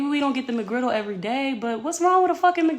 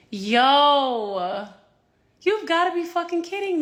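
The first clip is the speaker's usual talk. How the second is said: shout; 2 semitones higher, 5 dB louder than usual. Real, not acted. Outraged at traffic stop.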